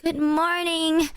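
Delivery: high, slow, stretched good morning; drawn-out cheery greeting. Retold or imitated. Boyfriend imitating girlfriend's slow, sweet morning greeting, high and stretched. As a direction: sing it out slowly and sweetly.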